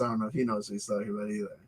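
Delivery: muttered aside. Real, not acted. Muttered aside about author.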